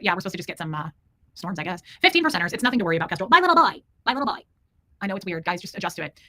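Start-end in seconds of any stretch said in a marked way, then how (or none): 3.3-3.8 put-on high, loud cooing baby talk; Finn voice. Streamer cooing at her cat Finn in high, loud baby talk. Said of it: "Buffy likes the Finn voice". 4.0-4.4 a touch of cooing pet talk, barely raised; a gentle echo of the baby voice; Finn voice, softer. Acted. Streamer repeating the pet name to Finn in mild cooing. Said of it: "Buffy likes the Finn voice".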